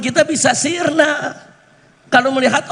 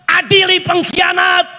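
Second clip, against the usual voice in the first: higher-pitched imitation of a protest cry; retold crowd shout; 5 semitones higher than usual. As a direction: call it out like a slogan, not at full volume. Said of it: "Orang lagi teriak". (menirukan teriakan massa dengan nada tinggi)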